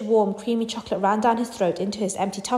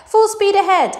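loud, high rallying cry; excited shout; 11 semitones higher, 7 dB louder, slower than usual. Acted. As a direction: call out full tilt to the crew. Wonka urging the rowers on.

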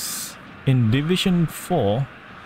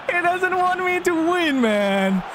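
high-pitched, incredulous wail; exasperated outburst; 12 semitones higher than usual. Real, not acted. Gamer complains the game won't let them win, exasperated. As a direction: protest high, in utter disbelief.

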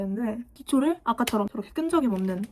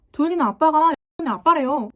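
put-on tattling child; 5 semitones higher, 6 dB louder than usual. Child telling on classmate to teacher.

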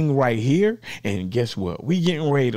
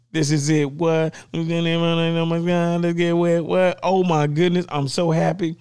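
giddy, slightly raised voice; excited; 4 semitones higher than usual. Real, not acted. Host unboxing the Rodecaster Pro two, super excited. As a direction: gush over the long-awaited gear. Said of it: "super, super excited right there".

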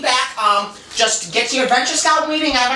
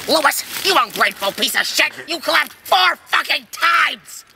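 angry scolding; 2 semitones higher than usual. Acted. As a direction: berate a useless scout, stretching the last words. Scolding scout leader in sketch.

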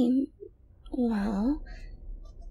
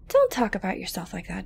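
whisper; 5 semitones lower than usual. Acted. Girlfriend whispering a gentle scold. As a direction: hush him, gently.

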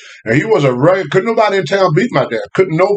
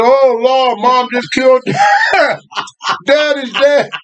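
put-on panicked kids crying out; 7 semitones higher, slower than usual. Kids hear gunshots, think dad dead.

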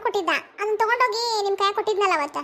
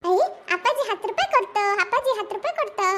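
gleeful bouncing singsong; delighted. Acted. Child gets money from father, delighted. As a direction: let the pitch leap about with glee.

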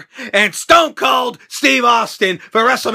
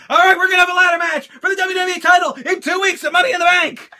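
imitating Rollins; 8 semitones higher, 3 dB louder, faster than usual. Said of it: "Rollins comes out ... and says".

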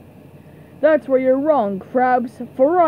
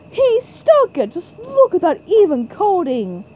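excited commentary; 3 semitones higher than usual. Acted. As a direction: hail a perfect landing for the crowd. Commentator celebrating the landing.

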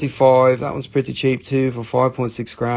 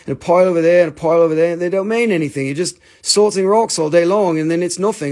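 mock nagging friend, a little higher; imitated needling, slightly raised voice; making fun; 4 semitones higher, faster than usual. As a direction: tease with exasperated disbelief. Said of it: "he makes fun of me".

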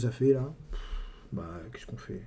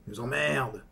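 lightly voiced Bedos grumbling about politicians; mild Bedos drone; Bedos impression; 3 semitones lower than usual. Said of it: "Guy Bedos, il a trouvé".

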